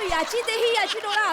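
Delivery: देही and डोळा pronounced properly; correcting the phrase. Acted. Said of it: "असं आहे ना".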